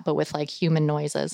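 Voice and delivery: ordinary talk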